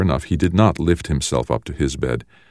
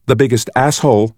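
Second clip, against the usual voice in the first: scornful retort; 8 semitones higher, 4 dB louder than usual. A narrator's reading. Sister insults her brother.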